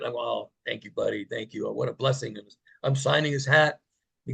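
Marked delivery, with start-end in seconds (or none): 0.2-2.4 soft, low, tender thanks; touched gratitude. Retold or imitated. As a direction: thank a child gently, humbly. Moved reply to sick child.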